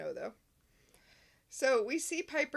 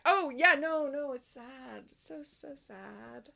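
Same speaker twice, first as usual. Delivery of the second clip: fake sadness; 4 semitones higher, slower than usual. Phoebe faking sorrow.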